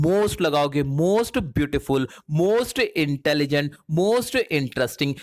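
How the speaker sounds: each phrase drawn out slowly; slow teacher demo of "Most beautiful"; slow modeling. Shown as a demonstration. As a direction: spell it out slowly for students. Teacher models superlative examples.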